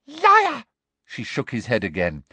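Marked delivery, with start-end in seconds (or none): 0.1-0.6 high, loud, sharp cry; angry accusation. Acted. Umbridge rejects Harry's excuse, angrily. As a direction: snap the accusation, short of a full scream.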